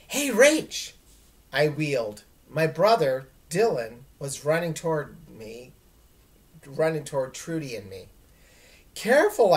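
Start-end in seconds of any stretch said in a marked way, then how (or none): 0.1-0.9 high, loud call across the street. Acted. Little brother calls out to his sister, loud call. 8.9-9.5 loud, high warning cry; cried out. Acted. Sister warns brother racing across the avenue, loud cry. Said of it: "I cried".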